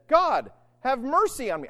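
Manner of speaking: fervent cry for mercy; anguished tax collector. Acted. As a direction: cry out as a penitent. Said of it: "beat on his breast and said".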